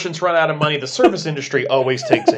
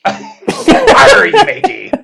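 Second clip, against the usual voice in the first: loud laughing pirate growl; 8 dB louder, much slower than usual. Acted. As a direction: ham up a cartoon pirate. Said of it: "reading it like a pirate".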